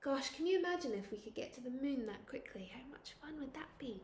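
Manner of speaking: hushed aside to the class; whisper. Shown as a demonstration. Teacher whispering an aside to her pupils, hushed. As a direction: lean in and whisper it.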